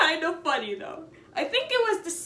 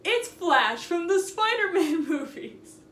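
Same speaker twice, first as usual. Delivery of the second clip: loud mock exclaim; 4 semitones higher, 5 dB louder, slower than usual. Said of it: "she points out".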